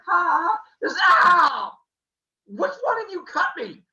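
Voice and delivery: high, loud cry of pain; high mock yowl of pain; pained shout. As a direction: yelp as the blade hits. Uranus gets cut.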